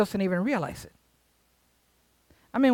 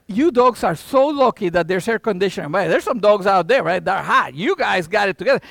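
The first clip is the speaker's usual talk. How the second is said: loud teasing to dogs; 5 dB louder than usual. Retold or imitated. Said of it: "I'm like".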